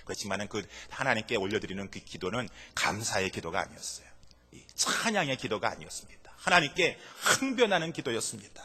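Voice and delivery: ordinary delivery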